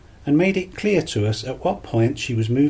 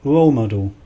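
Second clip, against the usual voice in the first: "role model" with ROLE punched louder; stress on ROLE; 4 dB louder than usual. Shown as a demonstration. Teacher corrects pronunciation, stressing "role" in "role model". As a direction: hit "role" in "role model", let "model" fall away. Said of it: "pronounced with the stress on the first word".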